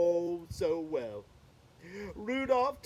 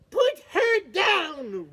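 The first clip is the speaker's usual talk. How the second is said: loud, slow, higher shout; shouted command; 8 semitones higher, 8 dB louder, slower than usual. Acted. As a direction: yell at the monster to let her go. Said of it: "Rudolph cried".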